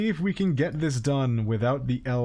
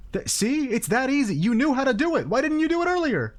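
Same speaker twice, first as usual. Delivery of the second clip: sarcastic scolding; 10 semitones higher than usual. Real, not acted. Mocking dwarves after fixing it.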